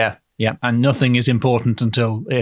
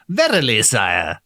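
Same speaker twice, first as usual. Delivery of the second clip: stagey period drama; slower than usual. Shown as a demonstration. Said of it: "I think you want more of a".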